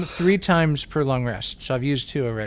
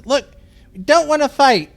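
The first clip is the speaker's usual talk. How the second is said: higher-pitched, placating appeal; pleading for calm; 10 semitones higher, 4 dB louder than usual. Acted. Player to guards with palms up, placating. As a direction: talk them down, slowing at the end.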